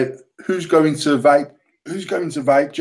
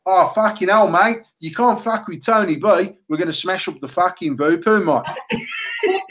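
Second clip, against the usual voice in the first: put-on Australian accent. Vaper mocks an Australian reviewer smashing a mod, Australian accent. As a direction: put on a matey Aussie accent. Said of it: "so he's Australian. So now he's like".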